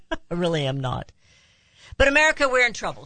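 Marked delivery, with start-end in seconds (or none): 2.0-3.0 rally the country with alarm; calling out to America. Real, not acted. Speaker rousing viewers to the country's danger, raised urgent call.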